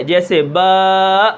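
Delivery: slow drawn-out با ending in a hamza catch; غلط: با کے آخر میں حمزہ; wrong hamza. Shown as a demonstration. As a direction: demonstrate the mistake: با cut off with a glottal stop. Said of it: "حمزہ کیسے".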